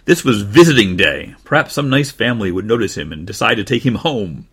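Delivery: put-on lively children's storybook reading; story narration. A narrator's reading. Narrator opens a puppy's tale, lively storytelling. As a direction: read it aloud to little ones.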